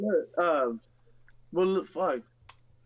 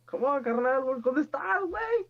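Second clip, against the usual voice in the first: calling out; 9 semitones higher than usual. Real, not acted. Calling for a friend to join.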